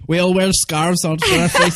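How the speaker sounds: hammed-up Eastern European comrade; Eastern European accent. Mocking generic audition requests, hammed-up Eastern European accent. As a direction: play a war-hardened comrade, thick Eastern European accent. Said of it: "Eastern European".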